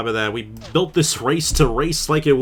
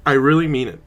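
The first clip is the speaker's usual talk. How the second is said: tearful; 2 semitones higher, 6 dB louder than usual. Real, not acted. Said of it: "I was gonna try not to cry".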